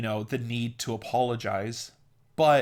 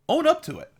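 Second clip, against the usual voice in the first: emphatic urging; 5 dB louder, faster than usual. Real, not acted. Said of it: "emphatic command".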